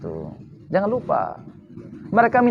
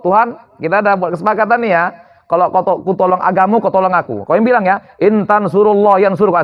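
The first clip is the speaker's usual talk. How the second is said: mock demanding God. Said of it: "Itu nuntut Tuhan namanya".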